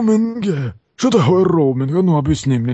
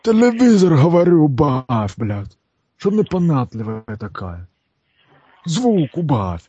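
put-on Ukrainian accent. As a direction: fake Ukrainian accent, gruff. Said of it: "почему ты пытаешься говорить с украинским акцентом".

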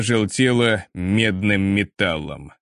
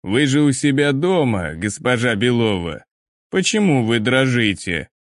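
eldritch horror. Acted. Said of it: "странным, нечеловеческим голосом".

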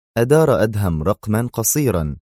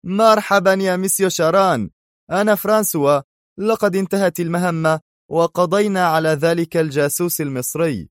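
higher put-on voice of a French agent; imitating François; 9 semitones higher than usual. Adham on the phone posing as François. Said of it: "مقلدا إياه في براعة خرافية".

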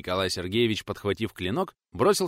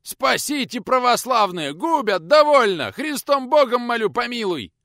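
desperate high begging, much higher; pleading scream; 13 semitones higher, 8 dB louder, slower than usual. Acted. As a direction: beg for mercy under the blows. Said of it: "взмолился". (отчаянно молит, очень высоко)

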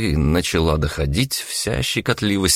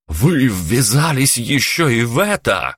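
aghast at the news; gasping in shock; 5 semitones higher than usual. Acted. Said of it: "ахнул Станислав".

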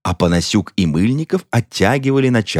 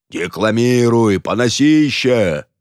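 нетерпеливый выкрик; 3 semitones higher, slower than usual. Acted. Толпа требует начать.

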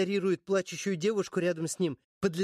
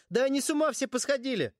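high, exasperated cry; shouting; 6 semitones higher than usual. A narrator's reading. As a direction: shout in disbelief. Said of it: "кричу, срываясь с места".

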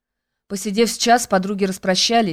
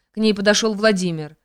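ordinary delivery, nothing marked

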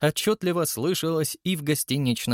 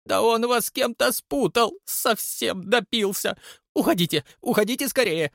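higher, urgent frightened warning; alarmed concierge; 10 semitones higher than usual. A narrator's reading. Concierge urging the guest to flee, higher and urgent. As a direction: hurry them away in alarm.

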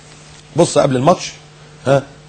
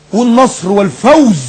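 high, drawn-out victory words; mock bombast; 4 semitones higher, slower than usual. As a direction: intone it like a grand war slogan. Mocking grand football vocabulary. (تفخيم ساخر)

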